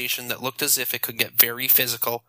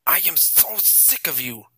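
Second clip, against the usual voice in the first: growl; 4 semitones higher than usual. A narrator's reading. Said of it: "his voice lowering to a growl".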